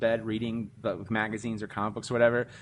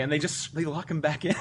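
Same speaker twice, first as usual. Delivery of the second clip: usual speaking voice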